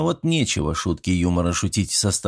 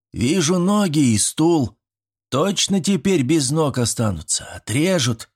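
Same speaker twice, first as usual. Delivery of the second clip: lightly voiced boy; 7 semitones higher than usual. A narrator's reading. Fedka continues doom.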